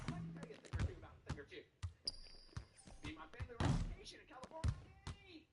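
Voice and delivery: fast mock Alabama accent; Southern drawl impression. Grown son in Alabama telling aliens story, mock Southern accent. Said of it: "he's playing the banjo".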